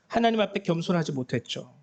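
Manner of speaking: ordinary talk, nothing marked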